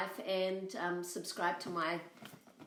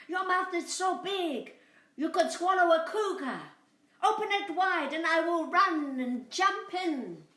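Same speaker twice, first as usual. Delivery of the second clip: high bleating lamb voice, louder; 10 semitones higher, 7 dB louder than usual. Acted. Lamb tricking the coyote, high bleating voice. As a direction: bleat the words like a little lamb.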